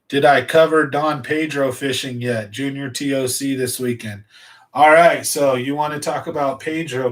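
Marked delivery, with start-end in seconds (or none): 0.1-4.2 slurping food while talking. Real, not acted. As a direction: talk between slurps of soup. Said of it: "don't mind me slurping away here".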